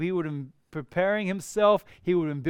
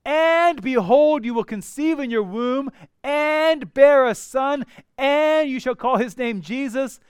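higher and louder, eager announcement; excited angel; 5 semitones higher, 4 dB louder than usual. Acted. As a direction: read it like thrilling news. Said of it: "someone that's excited with anticipation".

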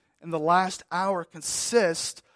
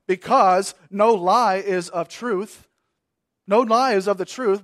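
emphatic quote; 8 dB louder than usual. Shown as a demonstration. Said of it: "quoting verse with emphasis".

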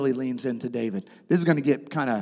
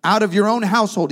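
prophet's rebuke; 4 semitones higher, 4 dB louder than usual. Retold or imitated. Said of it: "This is Nathan".

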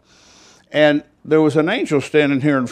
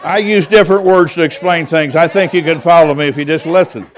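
laughing; 3 semitones higher, 5 dB louder than usual. Real, not acted. Laughing at his own joke.

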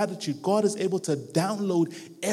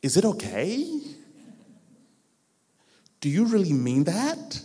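hesitant, exaggerated questioning with a big rise at the end; mock-bashful double-checking before accepting; awkward reluctance; slower than usual. Preacher imitates someone unsure about accepting a free lunch, awkwardly hesitant. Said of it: "there's a bit of an awkwardness moment".

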